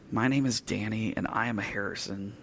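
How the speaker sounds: quiet, limp mumble with no courage; no conviction. Retold or imitated. Timid boy asked by his father to say his name, quiet and unconvinced. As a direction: say it softly as a timid boy who doesn't believe it. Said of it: "he said it with no conviction, no courage, definitely not much volume".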